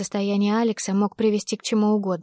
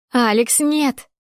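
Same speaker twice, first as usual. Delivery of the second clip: louder plea, a touch high; a restrained scream of refusal; desperate cry; 3 semitones higher, 4 dB louder, much slower than usual. A narrator's reading. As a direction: cry out his name in panic. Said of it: "завопила я".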